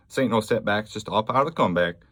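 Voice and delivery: lightly put-on Southern twang, tossed off; mild mock Southern-American accent, a bit fast; mock Southern drawl. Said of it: "I don't know what accent that was".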